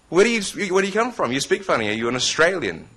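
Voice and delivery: curious stranger. Retold or imitated. Audience member asking his origin.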